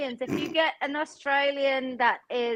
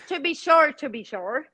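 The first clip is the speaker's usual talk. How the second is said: mock Irish accent; 4 semitones higher than usual. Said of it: "he's Irish".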